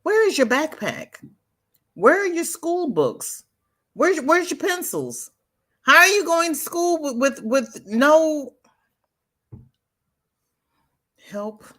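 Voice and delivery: put-on high-pitched, incredulous scolding of a kid; exasperated scolding. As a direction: demand answers from the boy, pitch way up. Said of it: "And I'm sitting here going".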